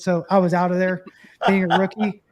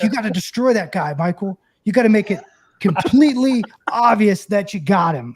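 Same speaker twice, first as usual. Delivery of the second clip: louder, mock-stern umpire advice; umpire telling him; 4 dB louder than usual. Retelling the umpire ordering him to make the tag obvious, firm and louder. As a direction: lean on it like a lecturing umpire.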